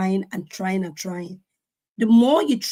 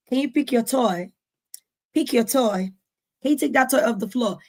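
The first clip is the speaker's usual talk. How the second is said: repeated request building from mild to a high, loud yell; voice going up; 3 semitones higher, 6 dB louder than usual. Retold or imitated. Mother repeating herself to a child about toys, voice rising to a shout. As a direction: start patient, climb to a loud, high-pitched shout. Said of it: "then the voice goes up".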